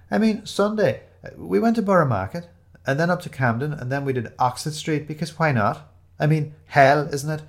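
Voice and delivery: high, bubbly chatter about the weekend; gushing friend showing off her London weekend. A narrator's reading. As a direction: rattle it off brightly.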